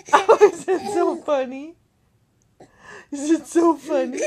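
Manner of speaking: giggling, delighted question; laughing along. Real, not acted. Mother laughing with her baby at the joke, giggly.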